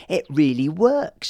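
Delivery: high, loud and thrilled; delighted witch voice. Acted. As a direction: squeal it with delight. Witch sees spell working.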